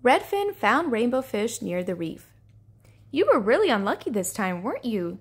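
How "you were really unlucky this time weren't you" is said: mild, kindly coaxing; gentle. Acted. Redfin consoling Rainbow Fish, understated gentleness. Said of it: "said Redfin gently".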